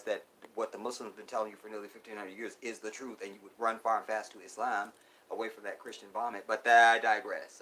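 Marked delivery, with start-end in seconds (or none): 6.5-7.6 worked up. Real, not acted. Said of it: "I'm getting worked up".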